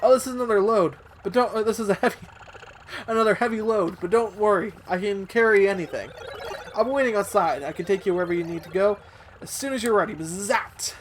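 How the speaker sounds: put-on robot porter with a buzzed sign-off; game robot voice. Robot offering to carry a heavy load, lightly voiced.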